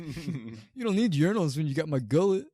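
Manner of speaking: high, loud hammed-up New York tough guy; mock New York accent. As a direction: sell the crude joke in a New York voice. Mocking the Giants fan.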